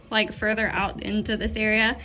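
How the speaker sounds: breathless after building the bed; out of breath. Real, not acted. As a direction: talk while still out of breath. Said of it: "Sorry, I'm kind of out of breath".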